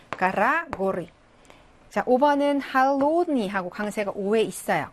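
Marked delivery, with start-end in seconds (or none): 0.1-1.1 가라 then 고리, stress moving from first to second syllable; stress contrast demo. Shown as a demonstration. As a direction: model 가라 and 고리 as a pair for students. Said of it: "복수 대격 형태가 되겠습니다". (가라와 고리 강세 비교 시범)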